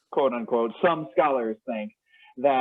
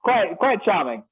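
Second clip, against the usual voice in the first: put-on posh British accent, raised pitch; 5 semitones higher than usual. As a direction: play a proper English gentleman. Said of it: "my terrible English accent".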